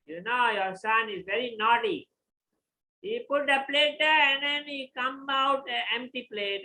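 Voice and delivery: loud, high-pitched tattling to the husband; complaining mother. Retold or imitated. Mother complains to father about son.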